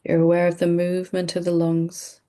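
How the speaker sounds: calm, unhurried meditation guide with long pauses; measured meditation delivery, pausing often; guided meditation. Real, not acted. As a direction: lead them gently through breathing, leaving space between phrases. Leads a breathing meditation.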